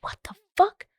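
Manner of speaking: high-pitched incredulous reaction; baffled disbelief. Retold or imitated. Amateur sleuth finds the company missing, high-pitched disbelief. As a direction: let the voice leap up in bafflement.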